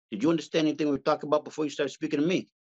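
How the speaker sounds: lightly voiced Italian mobster from Jersey; a hint of a Jersey Italian tough guy, leaning in; Italian accent. Telling a Jersey stranger to come to the back of the club, in a light Italian mobster accent. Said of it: "start speaking Italian to somebody".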